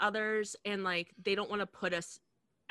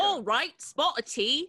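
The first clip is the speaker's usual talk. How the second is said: mock British accent; 4 semitones higher, 3 dB louder, slower than usual. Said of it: "all British people sound like that".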